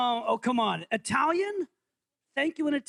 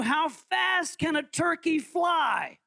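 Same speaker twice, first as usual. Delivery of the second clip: quiz announcer; 4 semitones higher, much slower than usual. Shown as a demonstration. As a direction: boom it out like a host. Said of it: "quiz host announcing".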